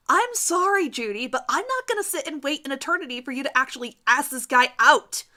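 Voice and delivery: loud, high, fed-up yell. Acted. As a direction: blast her patience away. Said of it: "she yelled".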